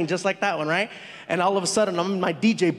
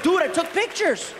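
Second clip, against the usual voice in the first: high, slow, laughing reply; amused high-voiced admission; 9 semitones higher than usual. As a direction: laugh through the confession. Retold reply while laughing.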